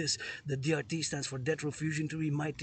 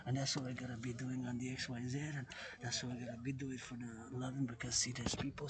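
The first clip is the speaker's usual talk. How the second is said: softer, held-back voice; speaking less loud; 2 semitones lower, 5 dB quieter than usual. Real, not acted. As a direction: quieter out of consideration for others. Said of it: "I'm gonna speak less loud here".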